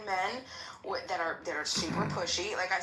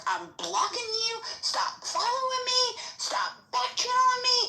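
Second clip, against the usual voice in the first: higher, louder, fed-up blocking tirade; fed-up outburst; 5 dB louder than usual. Retold or imitated. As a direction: snap at them, done with it. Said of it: "she was like".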